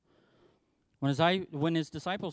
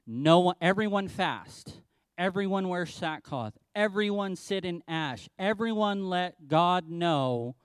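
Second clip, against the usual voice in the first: royal proclamation; 2 semitones higher than usual. Retold or imitated.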